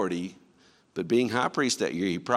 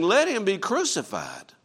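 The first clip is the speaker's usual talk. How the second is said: higher, louder mob cry of crucified; crowd crying out louder; 9 semitones higher, 3 dB louder than usual. Acted. The crowd shouting down Pilate, higher and louder than before. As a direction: hurl it back like an angry mob. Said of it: "they cried out all the more".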